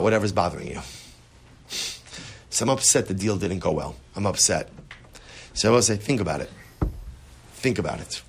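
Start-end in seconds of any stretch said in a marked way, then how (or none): 2.5-4.7 low, downcast admission to oneself; subdued upset. Acted. Man admitting to himself the deal failed, subdued. Acting out upset inner monologue. 6.0-8.2 soft, low, reflective prompt; quiet pondering. Acted. Teacher urging reflection on what bothers you, quietly pondering.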